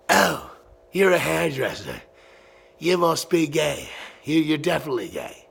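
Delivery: mock him as the jeering know-it-all; mocking dude. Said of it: "I love when a dude says".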